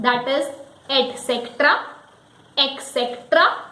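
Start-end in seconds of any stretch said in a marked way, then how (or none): 0.9-1.8 ET CETERA as et-SEK-tra, rising; wrong pronunciation. Shown as a demonstration. Teacher quizzing learners, wrong pronunciation. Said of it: "many people say it et cetera". 2.6-3.6 ET CETERA as ek-SEK-tra, rising; wrong pronunciation. Shown as a demonstration. Teacher offering a wrong pronunciation as a question. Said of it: "many people say it et cetera".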